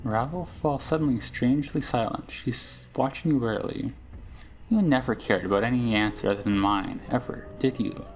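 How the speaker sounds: a hint of a sly old witch, menacing then tender; lightly played crone, half narration; lightly voiced hag Ravel. Reads Ravel's scene and lines.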